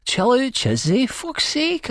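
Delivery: very high strained shout; high-pitched exasperated shout. A narrator's reading. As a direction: call out in protest, pitch shooting up. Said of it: "I shout".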